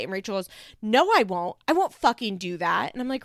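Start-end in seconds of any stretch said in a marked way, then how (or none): 0.8-2.9 retold angry refusal. Retold quarrel, Rachel refusing angrily.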